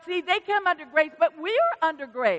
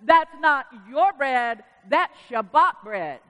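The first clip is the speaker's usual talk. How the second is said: slow, louder, firm claim; insistent; 5 dB louder, slower than usual. Retold or imitated. Jewish woman claiming the bread, slow and firm. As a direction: lay down the rule slowly. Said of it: "And she said".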